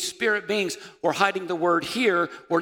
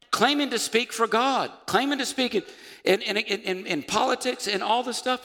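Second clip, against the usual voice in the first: worked-up preaching; 7 semitones higher than usual. Acted. Preaches against loud voices.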